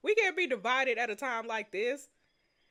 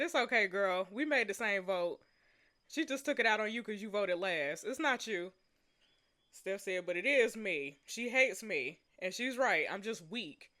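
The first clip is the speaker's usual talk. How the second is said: softer, lower read-aloud voice; story reading; 4 semitones lower, 4 dB quieter than usual. Acted. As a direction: read the friends' dialogue gently, low. Reads story dialogue aloud.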